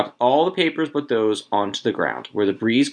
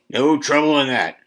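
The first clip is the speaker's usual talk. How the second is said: stoutly insistent, higher pitch; 4 semitones higher than usual. A narrator's reading. Old man Warner answering talk of quitting lotteries, stout. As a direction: declare it stoutly. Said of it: "Old Man Warner said stoutly".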